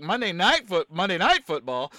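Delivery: "Night" punched in "Monday Night Football"; stress on NIGHT. Shown as a demonstration. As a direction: lean on "Night", replaying an odd emphasis. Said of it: "why did I say it like".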